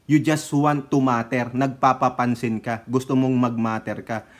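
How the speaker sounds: ordinary delivery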